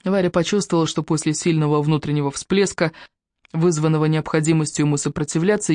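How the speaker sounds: ordinary delivery, nothing marked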